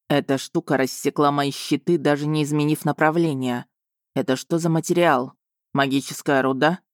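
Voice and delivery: ниже, спокойно и с интересом; любопытный дракон. Acted. (раненый дракон с интересом, низко и спокойно)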